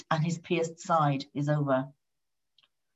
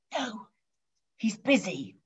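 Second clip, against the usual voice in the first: put-on soft, higher hushed kid voice; child's whisper; 4 semitones higher, 6 dB quieter than usual. A narrator's reading. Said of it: "whispered the child".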